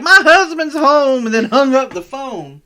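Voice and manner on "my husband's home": high, slow mock old lady; high, loud, slow granny voice. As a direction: play the flustered old woman on the phone. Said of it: "she was like".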